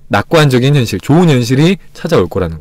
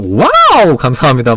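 mock delighted wow; slower than usual. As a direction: answer a scolding with cheerful thanks. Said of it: "막 이러면서".

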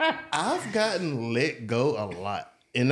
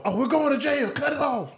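higher, frantic mock panic; panicked mom; 13 semitones higher than usual. Son imitates mom panicking over dome light, higher mock alarm. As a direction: mimic a mom scared of the cops. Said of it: "and I cut the light on".

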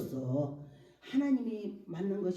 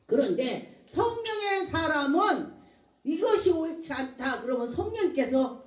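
raised, higher preaching voice; emphatic sermon delivery; 8 semitones higher, 6 dB louder than usual. Real, not acted. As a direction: press the point to a congregation.

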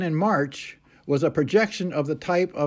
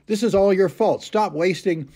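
mildly heated mock reprimand, pitched up at the start; retold angry scolding; 5 semitones higher, 3 dB louder than usual. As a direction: imitate a sergeant's angry blame, only partly raised. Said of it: "this is Sergeant Peterson's anger".

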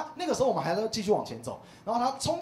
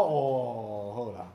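mother-in-law; 8 semitones lower, much slower than usual. Retold or imitated. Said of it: "她说".

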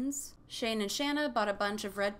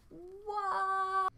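shocked what; 12 semitones higher than usual. Real, not acted. Shocked reaction to cancellation.

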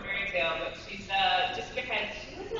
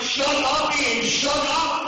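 loud playful shut up; louder, laughing it off; hammed-up loud protest; mock shout; 9 semitones higher, 6 dB louder, much slower than usual. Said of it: "I'm like".

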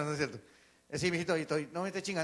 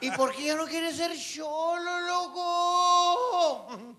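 higher, loud teasing question with a laugh; mocking shout; 8 semitones higher, 3 dB louder, much slower than usual. One guy shouts a teasing question at the ex-cholo, laughing. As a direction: shout it out while cracking up.

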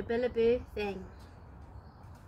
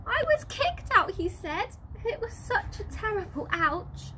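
upset joey; 7 semitones higher than usual. Acted.

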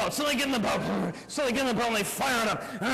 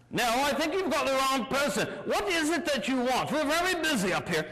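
lightly voiced, higher British captain; 3 semitones higher than usual. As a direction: brush them off as a British skipper. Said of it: "Captain's British".

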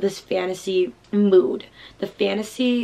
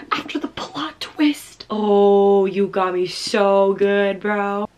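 stunned; 4 dB louder, much slower than usual. Real, not acted. Reacting to twist.

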